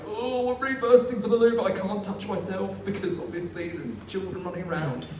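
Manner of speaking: comic desperate whine; mock desperate. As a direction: whine like you're bursting. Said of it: "I'm, like, going".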